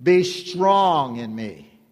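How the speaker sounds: slow, deliberate voice of God; God speaking. Acted. God telling the congregation today, slow and commanding. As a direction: lay each word down slowly. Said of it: "God is saying to you today".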